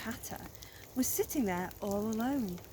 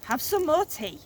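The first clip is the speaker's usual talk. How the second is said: higher, louder hostly offer; Mad Hatter; 7 semitones higher, 7 dB louder than usual. A narrator's reading. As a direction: push the tea on him eagerly. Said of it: "said the Hatter".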